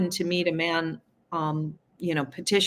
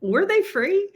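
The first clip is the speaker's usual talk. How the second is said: higher, incredulous questioning; sarcastic; 3 semitones higher than usual. Retold or imitated. Questioning free-vaccine believers, incredulous. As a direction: poke holes in the claim. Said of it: "And I'm like".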